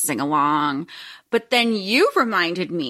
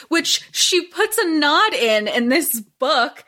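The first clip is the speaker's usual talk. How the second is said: echoey. Real, not acted. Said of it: "I'm sorry if I sound echoey".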